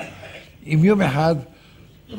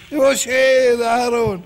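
high, drawn-out yell for someone; acted frustrated shout; 8 semitones higher, 4 dB louder, slower than usual. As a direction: holler names into the night. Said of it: "בסוף עומד וצועק".

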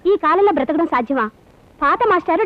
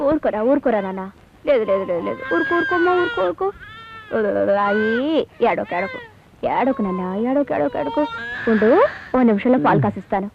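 soothing; 4 semitones lower than usual. Acted. Mother hushing her crying baby.

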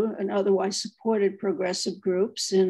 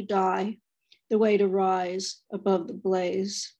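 poetry reading. Acted. Poet reading Woman Speaking Distinctly to the audience, poetry reading. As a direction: read the poem aloud, unhurried, line by line. Reads her poem aloud.

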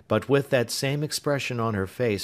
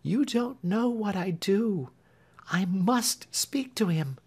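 resolute Marian; 12 semitones higher than usual. A narrator's reading. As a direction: insist gently but firmly.

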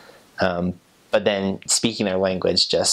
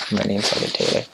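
Ghanaian accent. Shown as a demonstration. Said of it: "say it sort of in their accent".

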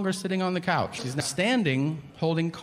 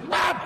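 bop. Shown as a demonstration. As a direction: pop out a sharp high bop. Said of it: "I just go".

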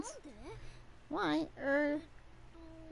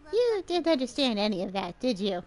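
teasing; 4 semitones lower, 4 dB louder than usual. Acted. Teasing the clueless character.

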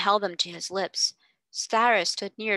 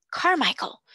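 loud, higher cry of a name; 8 semitones higher, 4 dB louder than usual. Acted. Invalid crying out to his friend, loud and high. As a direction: call out the name loudly. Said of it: "cried out loudly".

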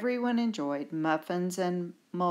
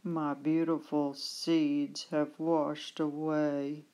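teary, slow lament; sniffling sad; slower than usual. Acted. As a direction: mourn the lost seeds, sniffling. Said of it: "Badger sniffed".

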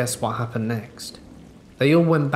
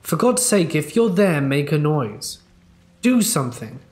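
shouting; 3 semitones higher than usual. Retold or imitated. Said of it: "One of them shouted".

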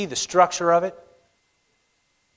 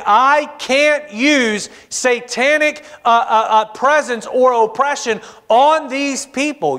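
raised, slow, lightly voiced prophet declaring; higher slow Balaam; 7 semitones higher, slower than usual. Balaam tells Balak he cannot curse them. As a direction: speak as Balaam, slow and high.

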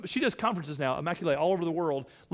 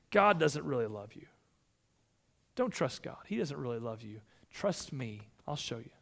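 tempting Satan; 4 semitones lower than usual. Acted. Satan tempting, quoted in sermon.

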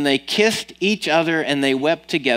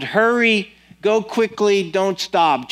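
shouting; 6 semitones higher, slower than usual. A narrator's reading. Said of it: "Then he shouted".

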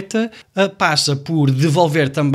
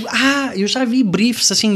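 mock naive client; 7 semitones higher, slower than usual. Mocking clients' naive claim.

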